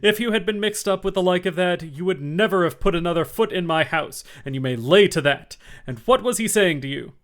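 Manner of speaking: loud, high menacing interrogation; very stern. A narrator's reading. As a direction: grill him hard. Silver scolds Morgan.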